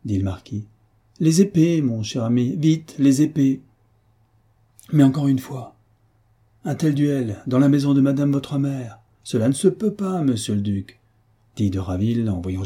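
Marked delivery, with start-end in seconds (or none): 1.2-3.6 high, loud call for the swords; eager, ringing command; urgent call. Acted. Marquis urgently calls for the swords. 4.9-11.0 higher-pitched objection, pressing each phrase; scandalised, emphatic remonstrance; insistent protest. Acted. Second protests against the duel.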